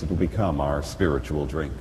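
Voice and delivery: normal talking voice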